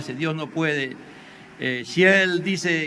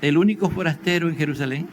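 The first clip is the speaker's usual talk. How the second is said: incredulous question. Acted. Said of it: "Le dijo".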